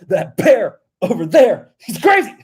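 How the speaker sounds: slow moose voice, leaping high at the end; goofy impression climbing to a high squeal; cartoon moose. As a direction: draw it out like a silly animated moose. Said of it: "he's like".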